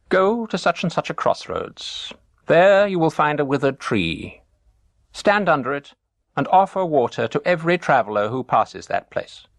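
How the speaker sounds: put-on calm instructions from an old sage; dervish's advice.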